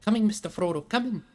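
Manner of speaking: high, loud frantic call after the boat; desperate calling. A narrator's reading. Sam calling after Frodo's departing boat, frantic shout. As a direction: shout it as the boat slips away. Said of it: "said Sam, and he flung himself".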